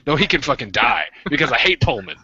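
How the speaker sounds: high-pitched comic spite; mock hateful outburst. Refusing to pull a man from ditch, mock hateful. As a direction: refuse with exaggerated hatred. Acted reply in imagined exchange.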